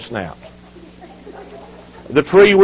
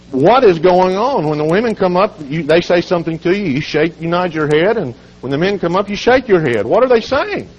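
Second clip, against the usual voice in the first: higher-pitched, baffled questioning; curious preacher; 5 semitones higher than usual. Retold or imitated. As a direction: press for an answer, pitch climbing to the last question. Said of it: "the preacher got curious".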